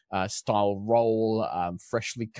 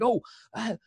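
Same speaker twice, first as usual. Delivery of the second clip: put-on English accent slipping; 8 semitones higher, 4 dB louder than usual. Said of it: "I'm gonna lose all my accents".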